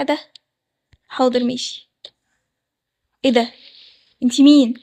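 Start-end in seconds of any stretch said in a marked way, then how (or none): 3.2-4.7 loud startled shout of who are you; shocked shout. Acted. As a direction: shout at the stranger under the veil in shock. Groom discovers the wrong bride. (صرخة مفزوعة عالية)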